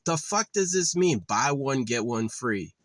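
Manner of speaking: mild mock outburst, rising on the first words; retold flip-out. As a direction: replay the flip-out, only half as hot. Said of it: "she heard me flip out".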